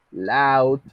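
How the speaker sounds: loud said slowly as lau, ou as au. Shown as a demonstration. Teacher repeats the student's word loud, ou as au. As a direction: draw out the au in loud. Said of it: "va a sonar como si fuera au".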